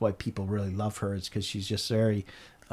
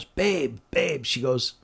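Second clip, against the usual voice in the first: tender wonder; 5 semitones higher than usual. Retold or imitated. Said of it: "beautiful expression".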